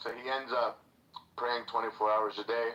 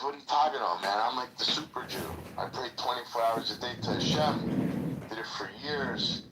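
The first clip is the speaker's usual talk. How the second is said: indignant super Jew; 2 semitones higher than usual. Retold or imitated. Retelling the joke, the super Jew protesting to the judge, indignant and raised. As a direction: puff up like a pious man insulted.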